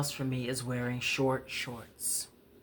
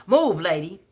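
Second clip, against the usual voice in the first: put-on loud, higher bark at the old lady; raised angry demand; angry yell; 4 semitones higher, 7 dB louder than usual. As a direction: shove her aside with your voice. Angry man in wheelchair yelling.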